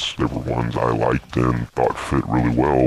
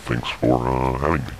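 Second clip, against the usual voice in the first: voice changer. Real, not acted. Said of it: "what's the deal with the voice changer".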